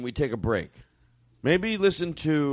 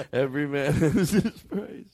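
laughing; slower than usual. Real, not acted.

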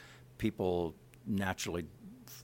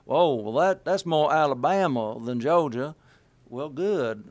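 louder, higher nitpicking voice; mock nitpicking; 5 semitones higher, 8 dB louder than usual. Mocking dialect nitpickers, loud and high. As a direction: play a fussy dialect snob. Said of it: "you know".

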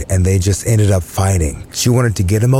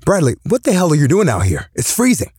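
put-on drunk father; 8 semitones higher, faster than usual. Drunk father finds son outside.

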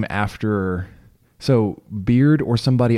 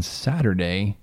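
voice crack; slower than usual. Real, not acted. Host announcing Saturday's game, accidental voice crack. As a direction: voice cracking briefly on one word. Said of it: "that was a good little voice crack".

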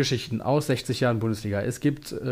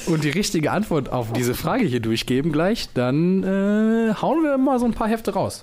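hammed-up TV sales pitch, rising; infomercial; 5 semitones higher than usual. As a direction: pitch it like a shopping channel host. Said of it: "Willkommen beim Elf Freunde Teleshopping".

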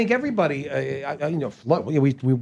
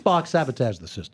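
lowered-pitch star impression; Bill Shatner; 4 semitones lower than usual. Impressionist reading a script line, low and mannered. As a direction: deliver it low, as the starship captain. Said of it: "to do Bill Shatner".

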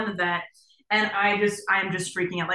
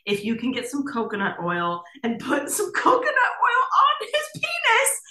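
higher, lightly mocking vet voice, slowing at the end; vet on phone; 4 semitones higher, 4 dB louder than usual. Vet explaining the fix over the phone, lightly mocked. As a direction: play the vet's calm advice with a hint of mockery. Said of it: "they're like".

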